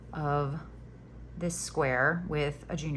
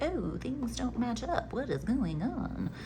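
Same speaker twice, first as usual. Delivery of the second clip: high, slow wobbly mock lament; mock dismayed crocheter; 6 semitones higher, 5 dB quieter than usual. Imitating viewers who find mismatched squares, mock-dismayed wail. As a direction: wail it softly, drawn out and wavering. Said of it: "you'll get to the end and be like".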